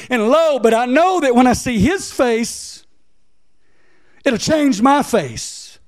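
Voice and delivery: preacher voicing the psalmist's hope; preached psalmist. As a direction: lift it up with fervor. Voices the psalmist, raised.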